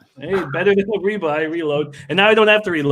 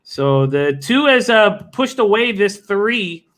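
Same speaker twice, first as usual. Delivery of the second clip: race call. Acted.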